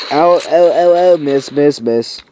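loud. Real, not acted. Frantic shots during fight.

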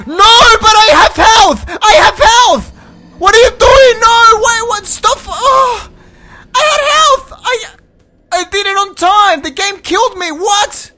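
very high, full-volume shrieks of disbelief; real high-pitched gamer meltdown; outraged screaming. Real, not acted. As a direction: scream in protest at an unfair death. Game kills player unfairly.

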